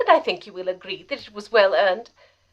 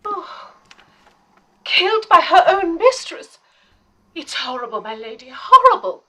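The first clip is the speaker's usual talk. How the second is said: horrified; 5 semitones higher than usual. Acted. Mary reacts to Runa's killing.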